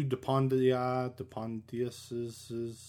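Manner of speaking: "dupondia, dupondiuses" drawn out slowly, feeling for the ending; unsure pronunciation. Real, not acted. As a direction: try "dupondia", then "dupondiuses", slow and tentative. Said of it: "something like that".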